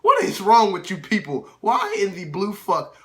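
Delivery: loud, exasperated yell at the crowd; outraged shout. Real, not acted. Ranting about rude moviegoers, loud exasperated shout. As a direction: throw the question at the whole room.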